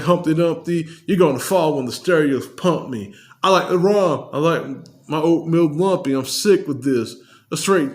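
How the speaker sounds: impersonating a rapper. Retold or imitated. Fan impersonating a rapper rapping his verse. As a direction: rap it in a mild impression of the rapper's voice. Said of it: "impersonate the voice".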